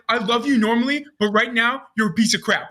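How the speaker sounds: hammed-up annoyance, close to laughing; retold mad rant. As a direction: imitate someone cussing a friend out. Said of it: "He's so mad".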